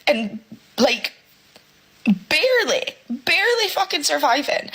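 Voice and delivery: real upset, pitch climbing; really emotional. Real, not acted. Single parent barely surviving on their wage, really emotional. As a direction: list the bills haltingly, voice rising with emotion. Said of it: "I'm getting really emotional".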